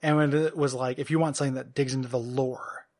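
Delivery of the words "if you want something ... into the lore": hushed, grave podcast ad read, played as a joke; solemn mock announcer, trailing softer with pauses; mock-serious promo. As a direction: pitch it softly with pretend gravity. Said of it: "if I did a really serious one".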